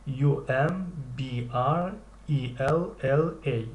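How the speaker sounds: slow letter-by-letter spelling; spelling aloud. Shown as a demonstration. Teacher spells the word slowly for students. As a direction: spell each letter clearly. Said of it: "از کدام حرف عبارت است".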